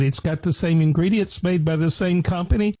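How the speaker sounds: normal talking voice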